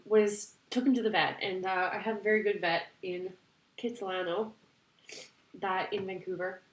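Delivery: holding back tears; blubbering. Real, not acted. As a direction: voice thick with tears. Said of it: "I'm sorry, I'm crying".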